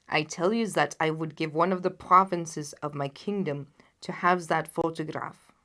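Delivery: loud then dropping to a whisper; desperate monarch ending in a whisper; loud, earnest king. Acted. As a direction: promise a province, then hush. The king offers anything.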